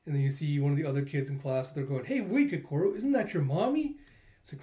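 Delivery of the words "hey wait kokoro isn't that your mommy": put-on kid classmate. Kids at school, acted quote.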